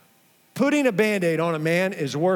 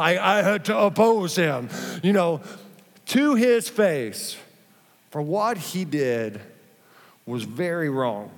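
Gandalf. Retold or imitated. Pastor reading Paul's rebuke as Gandalf, in a slow grave wizard voice. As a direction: pronounce it like an old wise wizard. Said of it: "like Gandalf or something".

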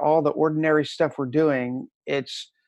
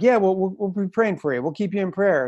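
offhand promise; 5 semitones higher than usual. Retold or imitated. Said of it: "say like".

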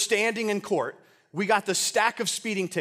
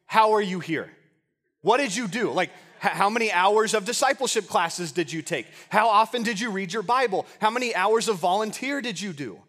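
mildly baffled, raised-voice interrogation; incredulous questioning. Acted. Saints quizzing the thief who got into heaven, incredulous. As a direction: fire off questions in playful disbelief.

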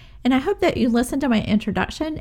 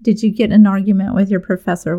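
retold panic; 3 dB louder than usual. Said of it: "I'm freaking out and I'm like".

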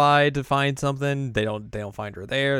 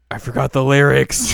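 laughing admission; 4 semitones higher, 11 dB louder than usual. Retold or imitated. Yui stopping mid-run.

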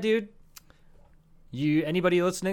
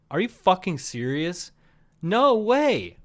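incredulous; 5 semitones higher, 4 dB louder, slower than usual. Retold or imitated. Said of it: "And I'm thinking, like".

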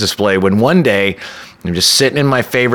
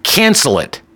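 petulant; 9 semitones higher, much slower than usual. Retold or imitated. Date insists on cancelling.

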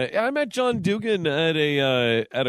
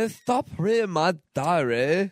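British accent attempt; 2 semitones higher than usual. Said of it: "She needs a British accent".

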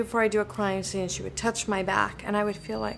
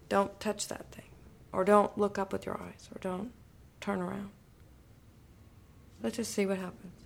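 whispered notes, nearly voiceless; hushed director's note; 5 dB quieter than usual. Retold or imitated. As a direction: whisper the advice like a director at your shoulder. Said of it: "he comes up to me and says".

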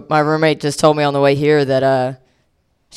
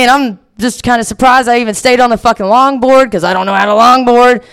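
ordinary talk

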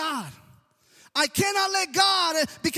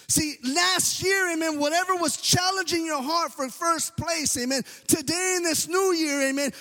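fervent preaching. Real, not acted. Preaching at full force.

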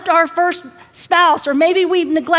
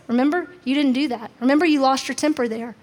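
nagging inner voice; 2 semitones lower, faster than usual. Retold or imitated. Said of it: "I hear this little voice".

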